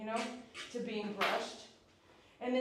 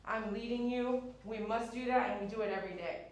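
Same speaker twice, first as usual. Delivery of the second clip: firm leader voice; 4 dB louder than usual. Pretend. Owner telling the dog who leads, firm and steady. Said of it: "the ability to say".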